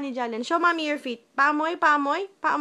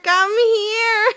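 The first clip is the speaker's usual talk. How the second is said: laughing call; 5 semitones higher, 5 dB louder than usual. Real, not acted. Mom laughing, calling baby.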